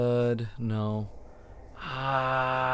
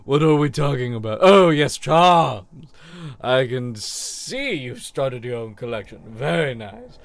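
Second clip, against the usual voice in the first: put-on sweet old charm seller; 5 dB louder than usual. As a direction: coo at the customer like a doting old shop lady.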